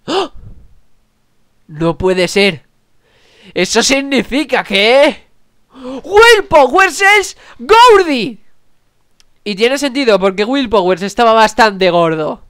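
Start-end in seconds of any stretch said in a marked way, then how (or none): 3.5-8.4 slow, high, shouted reveal; dramatic reveal shout. Acted. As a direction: drag it out and shout the big name.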